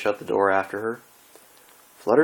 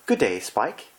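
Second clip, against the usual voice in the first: Rarity voice; 3 semitones higher, slower than usual. Acted.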